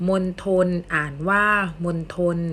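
มนทน read "mon-thon", with aspirated t. Shown as a demonstration. Teacher reading an example to students, มนทน with aspirated t. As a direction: say มนทน with an airy t starting the second syllable. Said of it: "อ่านออกเสียงทอกันบ้าง".

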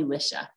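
"Lisha" as LISH-a; mispronounced name. Retold or imitated. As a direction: say "Lisha" with a short i. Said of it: "pronunciation that I hate the most".

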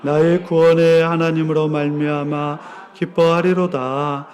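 low, measured Bible recitation; solemn scripture reading. Acted. Reads the scripture passage aloud.

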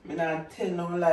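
talking while chewing gum; words round a wad of gum. Real, not acted. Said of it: "Me just a talk with a bubble gum in my mouth".

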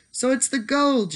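sharply knowing, peak on "gold"; a touch of sharp suspicion. A narrator's reading. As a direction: make it a pointed accusation. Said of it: "declared the leprechaun sharply".

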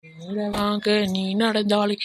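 slow, drawn-out, soft wailing call for food; hungry son's plea.

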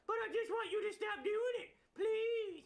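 high cheeky puppet voice; dummy voice. Acted. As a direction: sass back like a puppet. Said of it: "ventriloquist dummy".

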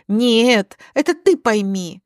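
forceful opening refusal; acted indignant counter; angry rebuttal. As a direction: turn it back on him. Alina cuts husband off angrily.

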